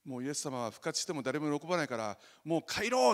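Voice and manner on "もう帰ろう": higher and louder joking mock line; mock weary Jesus. Pastor joking about a bored Jesus leaving, mock sigh. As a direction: ham up a bored let's-go-home. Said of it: "って言ったんじゃないんです".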